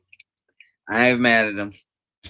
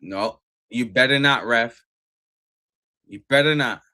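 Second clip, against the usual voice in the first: loud warning at the ref; 6 dB louder than usual. Real, not acted. Warning the referee.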